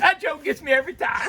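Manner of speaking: loud, high, tickled delivery; laughing. Real, not acted. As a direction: say it while cracking up at yourself. Tickled by own joke.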